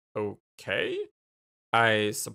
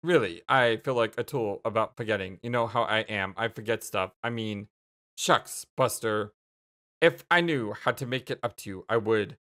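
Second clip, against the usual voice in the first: low, subdued apology; mumbly-humble, feeling like a tool; sheepish contrition; 8 semitones lower than usual. Acted. Jake apologizing for the forgotten birthday, contrite. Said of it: "sighing pretty much the shucksiest Buster of contrition".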